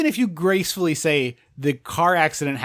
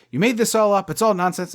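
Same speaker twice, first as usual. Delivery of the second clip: mild mock scolding, a touch higher; berating; 3 semitones higher than usual. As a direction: imitate an official dismissing a girl's story. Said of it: "he just starts berating this girl".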